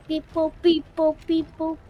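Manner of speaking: beeping like a toy robot; little kid doing a robot. Pretend. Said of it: "Do you wanna try it?".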